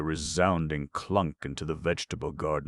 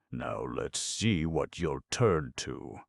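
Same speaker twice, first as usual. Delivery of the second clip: savage pant; slower than usual. Acted. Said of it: "he panted savagely".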